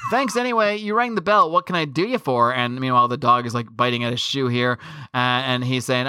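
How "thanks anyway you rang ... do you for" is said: mock high woman's voice. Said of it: "And she's like".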